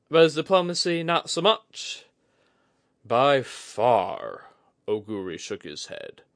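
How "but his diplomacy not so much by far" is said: high, bright-edged woman's voice, much higher; Kudaka voice. A narrator's reading.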